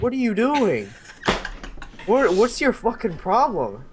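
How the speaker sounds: rattled yelping at the guard; retold freak-out. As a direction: squeal it out, still shaken. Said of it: "I completely freaked out".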